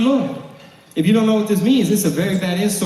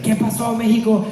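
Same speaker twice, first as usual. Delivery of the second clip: high-pitched re-enacted greeting to a crowd; showman's hollered hello, re-enacted; hyped stage greeting; 3 semitones higher than usual. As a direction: work up the crowd in Spanish.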